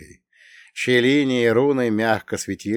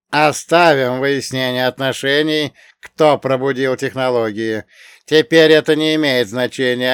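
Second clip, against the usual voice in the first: alien translator voice; 3 semitones higher, 6 dB louder than usual. Acted. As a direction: announce like an alien envoy.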